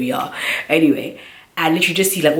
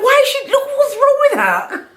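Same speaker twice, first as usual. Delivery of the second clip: much higher frantic mother voice; panicked mom. Retold or imitated. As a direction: imitate mom shrieking in alarm.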